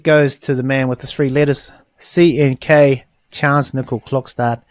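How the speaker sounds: slow grand announcement; announcer voice. Pretend. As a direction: proclaim the winner.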